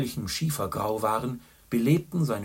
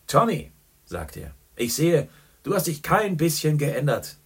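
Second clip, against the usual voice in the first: loud, high, jovial barroom greeting; a boisterous journalist ordering whisky for his friend; hearty old pal; 5 semitones higher, 7 dB louder than usual. A narrator's reading. Boastful Gallagher greets Chandler, loud and jovial.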